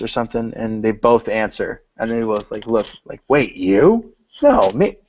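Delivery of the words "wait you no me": high, loud confused back-and-forth; mock surprise. Retelling a scene where both men answer at once, mock surprised. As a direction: act out a comic double take, pitch leaping up. Acting out two men's confusion.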